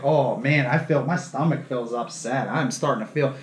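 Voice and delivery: low, soft queasy complaint; acted queasiness. Patient telling nurse about his stomach, mock queasy. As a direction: play feeling sick, voice sinking. Acting himself growing queasy in ER.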